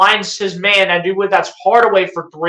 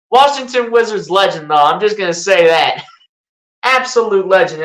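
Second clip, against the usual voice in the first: sarcastic. Real, not acted. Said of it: "I'm being sarcastic when I say that".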